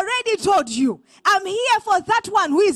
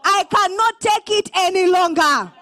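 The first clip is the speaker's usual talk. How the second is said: loud prayer cry. Shown as a demonstration. Preacher leads the congregation in a loud cry to God. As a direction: cry out to God, louder on each Oh God. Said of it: "I want you to declare".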